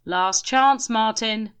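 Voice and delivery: loud, high demand. A narrator's reading. Grim demanding Martin come now, loud. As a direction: insist with force. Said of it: "demanded Grim".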